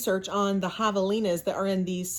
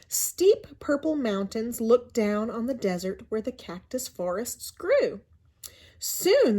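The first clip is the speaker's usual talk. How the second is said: storybook narration. A narrator's reading. Teacher reading a picture book to her class, in lively storybook narration.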